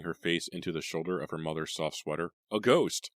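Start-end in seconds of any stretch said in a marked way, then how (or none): 2.5-3.1 shocked. Acted. Parent shocked at ghost claim.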